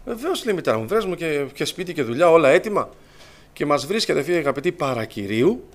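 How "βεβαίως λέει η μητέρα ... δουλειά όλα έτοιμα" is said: retold joy. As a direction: imitate a mother gladly agreeing. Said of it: "Χαρά μεγάλη". (χαρούμενη, πρόθυμη συγκατάθεση)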